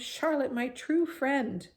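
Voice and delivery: high, slow grieving moan. A narrator's reading. Wilbur mourning his friend Charlotte, slow high moan. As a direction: draw it out in sorrow. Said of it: "he moaned".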